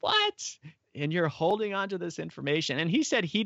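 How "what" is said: mock disbelief, pitched way up; stunned what. Hearing humanity may live near the poles, shocked high what. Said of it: "And I'm like".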